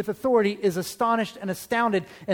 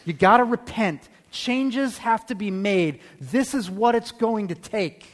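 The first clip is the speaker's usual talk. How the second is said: commanding authority; 3 semitones higher than usual. Retold or imitated. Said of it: "he teaches with authority, and he says".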